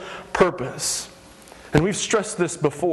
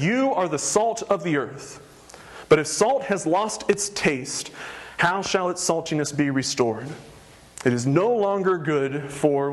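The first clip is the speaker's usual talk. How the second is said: scripture reading; 2 semitones lower than usual. Acted. Pastor reads Matthew to the congregation, measured. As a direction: read the verses with weight.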